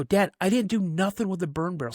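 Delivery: mildly angry retold back-talk; mad kid. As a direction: protest to dad with rising irritation. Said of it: "So now I'm getting mad".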